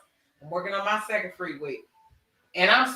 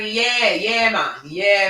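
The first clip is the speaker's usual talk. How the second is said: Jamaican accent imitation; 6 dB louder, much slower than usual. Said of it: "I pick up the dialect".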